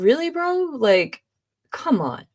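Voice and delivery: high "really, bro" sinking to a fed-up "come on"; exasperated disbelief that starts high and falls away; mock fed-up sigh of a reaction. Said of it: "And I was like".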